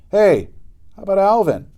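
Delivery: put-on high, loud kid calling out for a friend; eager call. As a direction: shout to get the leader's attention. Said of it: "asked Sam".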